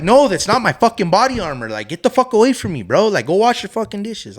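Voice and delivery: snapping at a pestering coworker; irritated. Retold or imitated. Irritated cook tells the dishwasher to get away, mock angry rant. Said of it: "I was just, like, irritated".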